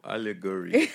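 teasing, laughing repeat of allegory; laughing echo. Real, not acted. Teasing echo of partner's word.

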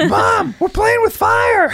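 put-on very high, slow little-kid voice; dad playing a kid calling to mom. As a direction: pipe up like a mischievous child. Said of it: "kid voice quote".

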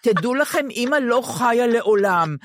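mother's solemn warning. Retold or imitated. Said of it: "הייתה לוקחת אותנו לשיחה".

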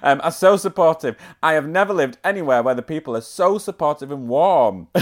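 put-on light Yorkshire accent reading a quote. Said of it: "I'm reading this in a Yorkshire accent".

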